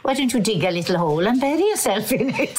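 lightly voiced Welsh teacher; a touch of a stern Welsh teacher; Welsh accent. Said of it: "I said that in Welsh accent".

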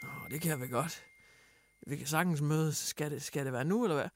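lav, dæmpet og lumsk fremmed mandsstemme; creepy stranger. Retold or imitated. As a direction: sig det stille og lusket som en uhyggelig fremmed. Creepy stranger answers her text. (hun skriver til en fremmed, og han svarer lavt og lumsk)

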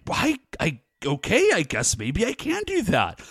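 hesitant giving in. Retold or imitated. Monster persuaded to be nice, hesitantly agreeing. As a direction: give in shyly, with false starts.

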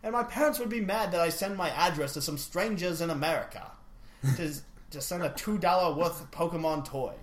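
put-on improvised, uncertain Belgian accent; makeshift Belgian accent. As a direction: fake a Belgian accent for a listener's letter. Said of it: "Do it in a Belgian accent".

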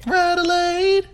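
high, drawn-out cheer; excited shout. Real, not acted. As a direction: call out the city name with glee. Cheering the city name.

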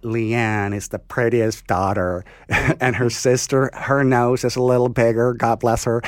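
slow, drawling pageant mom gushing; lightly voiced proud pageant mother; mock pageant mom. Mocking a pageant mom bragging about her daughter, slow and sugary. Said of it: "og da er det liksom".

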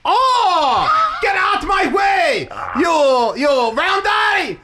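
a furious driver ranting in a mock East Asian accent; caricatured East Asian accent. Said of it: "yell in your oriental accent".

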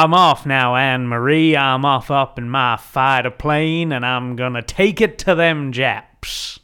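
hammed-up old-time pilot.

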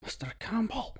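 high, surprised call of a name across the carriage. Retold or imitated. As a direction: call him out like a student spotting his teacher. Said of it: "And he went".

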